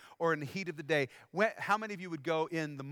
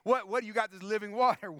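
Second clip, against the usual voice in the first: fast, louder, mocking challenge; playful mock sass, laughing at the woman's cheek; sassy attitude; 3 semitones higher, 3 dB louder than usual. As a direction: call him big shot with a sneer. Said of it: "She's got attitude".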